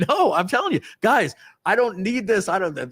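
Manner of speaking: high, insistent retold protest; worked-up refusal. Man refusing coworkers' pleas to calm down, high and agitated. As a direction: push back hard at those calming you.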